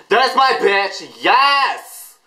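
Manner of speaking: high, drawn-out excited squeal; thrilled fan's high cry; excited cheering. Real, not acted. Cheering the singer on screen.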